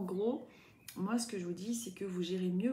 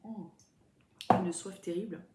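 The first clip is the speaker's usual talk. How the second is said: while sipping a drink; 4 dB louder than usual. Real, not acted. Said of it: "je bois un petit peu".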